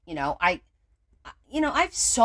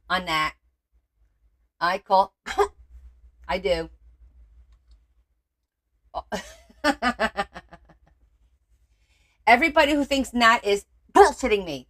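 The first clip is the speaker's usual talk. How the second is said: usual speaking voice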